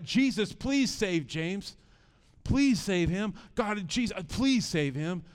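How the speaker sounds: retold pleading prayer, leaning on each please; desperate prayer. Father praying for his child to be saved, desperate pleading. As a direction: plead with God, drawn out in places. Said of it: "in desperation, I remember praying".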